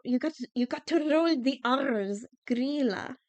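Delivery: Grýla with a trilled r, GREE-la; Grýla, demo of the rolled r. Shown as a demonstration. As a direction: roll the r in Grýla hard. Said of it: "Gotta roll the R's".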